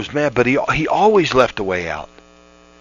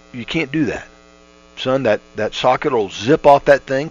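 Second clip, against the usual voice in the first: pleasant voice. Retold or imitated. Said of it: "in a pleasant voice".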